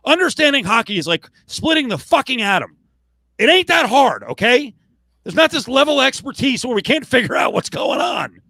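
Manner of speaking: high-pitched, shouting in disbelief; heated rant. Real, not acted. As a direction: laugh it off in exasperation. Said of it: "my little rant".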